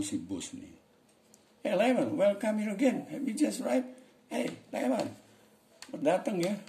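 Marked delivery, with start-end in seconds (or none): 1.6-6.6 high-pitched acted greeting; role-played boss calling out a welcome. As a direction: hail an arriving colleague in a much higher voice. Acts boss greeting Leman.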